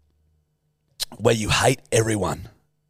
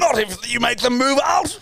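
posh English ghost; 13 semitones higher than usual. Acted. Posh English ghost objects to driving them out. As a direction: squeal the protest like a prim ghost. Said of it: "posh English ghosts".

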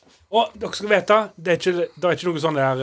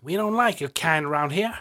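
put-on American accent; 3 semitones higher than usual. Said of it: "er jeg på samme plassen i Amerika".

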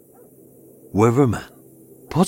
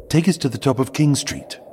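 lightly voiced American officer; American man giving directions, higher pitch; American accent; 5 semitones higher than usual. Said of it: "this was an American".

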